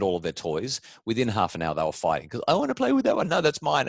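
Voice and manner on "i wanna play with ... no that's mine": put-on high whiny child, mid-fight; squabbling kid voice. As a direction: play the kids bickering over toys. Kids fighting over toys.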